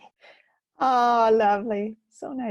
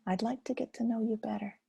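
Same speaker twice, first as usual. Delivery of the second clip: gentle invitation; 2 semitones higher, 6 dB quieter than usual. Shown as a demonstration. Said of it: "say hello and then say".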